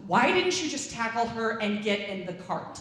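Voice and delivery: loud laughing question; laughing disbelief. Retold or imitated. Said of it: "I'm like".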